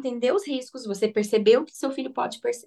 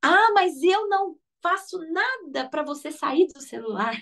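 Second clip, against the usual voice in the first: slow, higher mock self-reproach; self-blaming parent; 6 semitones higher than usual. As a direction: admit it slowly, catching your own fault. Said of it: "pensar no seguinte".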